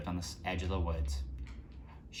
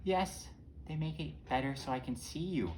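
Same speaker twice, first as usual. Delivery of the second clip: wolf posing as grandma; 5 semitones higher than usual. Acted. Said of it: "And the response is".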